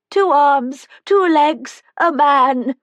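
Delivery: put-on high, slow old lady voice with a sly edge; frail old woman. A narrator's reading. Old Helen tells the visitors about whiskey truffles, high and sly. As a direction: play her as a mischievous old resident.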